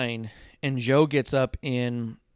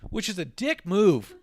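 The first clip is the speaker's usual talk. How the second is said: chuckling through the words; laughing; 7 semitones higher than usual. Real, not acted. Host amused by the crowd's taunt, laughing. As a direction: laugh while you say it.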